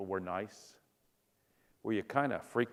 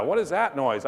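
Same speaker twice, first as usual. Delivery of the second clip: alarmed; 5 semitones higher, 5 dB louder than usual. Retold or imitated. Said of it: "it's like".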